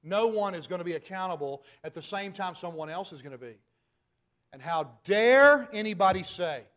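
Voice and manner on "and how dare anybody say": indignant outburst. Real, not acted.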